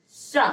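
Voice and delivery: सा said as a palatal "sha"; palatal sibilant demo. Shown as a demonstration. Teacher demonstrates sound for students, सा as palatal "sha". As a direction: say सा with the tongue at the palate. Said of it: "अगर इसका आप उच्चारण करते हो".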